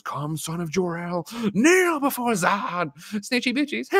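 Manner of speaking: high, slow put-on villain voice; mock General Zod growl, drawn out; imitating Zod. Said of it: "brings out the bat and goes".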